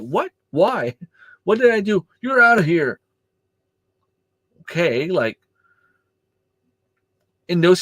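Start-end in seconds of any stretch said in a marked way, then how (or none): 0.0-2.0 high, startled protest; retold disbelief. Coach protesting his ejection to the referee, high startled disbelief. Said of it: "I'm like". 2.2-3.0 retold shout. Referee ejecting coach, shout.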